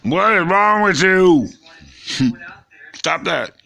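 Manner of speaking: high, loud, slow self-scolding; scolding herself. Retold or imitated. Scolding herself for falling for a boy, high and loud. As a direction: tell yourself off in disbelief. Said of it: "And I'm like".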